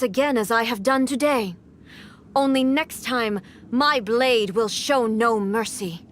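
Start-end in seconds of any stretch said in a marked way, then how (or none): 2.4-6.1 cold warning. Acted. Warning of a merciless next time.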